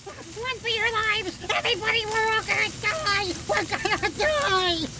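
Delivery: yelling while running away. Acted. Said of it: "running into camp screaming like a banshee".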